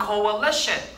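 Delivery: "Coalition" drawn out syllable by syllable; careful model pronunciation. Shown as a demonstration. Teacher repeats a word for the class, careful pronunciation. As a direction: say "Coalition" slowly with the middle A sounded. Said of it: "중간에 A가 있으니까 발음이 조금 달라요".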